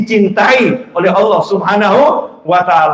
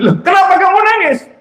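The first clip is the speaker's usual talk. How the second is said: surprised wife; 11 semitones higher than usual. Acted. Wife asks husband why crying.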